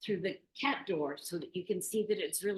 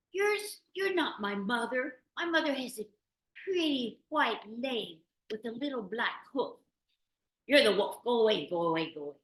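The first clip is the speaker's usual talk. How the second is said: put-on kids rejecting the wolf; 6 semitones higher, 5 dB louder than usual. A narrator's reading.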